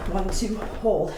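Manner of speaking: slowed-down demo count. Shown as a demonstration. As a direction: draw the count out for a controlled landing. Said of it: "stick that landing on the third count".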